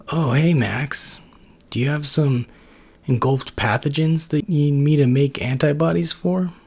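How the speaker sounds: just woken, talking through a yawn; sleepy Brad. Acted. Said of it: "In a sleepy voice".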